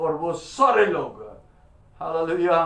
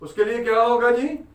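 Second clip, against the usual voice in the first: preaching; 4 semitones higher, 5 dB louder than usual. Acted. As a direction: preach the verse out to the congregation, stretching key words. Preaches the verse to congregation. (ज़ोरदार उपदेश, शब्द खींचकर)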